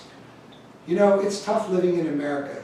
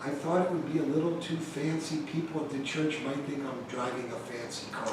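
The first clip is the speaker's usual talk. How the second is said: quoting dad; 3 semitones lower, 9 dB quieter than usual. Retold or imitated. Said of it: "He goes".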